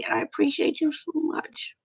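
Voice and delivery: whispered thanks to the viewers; heartfelt whisper. Real, not acted. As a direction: breathe the gratitude, barely voiced. Thanking loyal viewers, moved.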